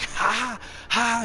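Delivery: high, loud imitated toddler cackle "Ha, ha"; maniacal laugh. Dad imitating his son's maniacal laugh at Spider-Man. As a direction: mimic the kid's maniacal little laugh. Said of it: "He's, like, maniacally laughing".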